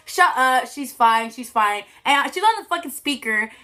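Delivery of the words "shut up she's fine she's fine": dismissive mom. Retold or imitated. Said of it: "He's like".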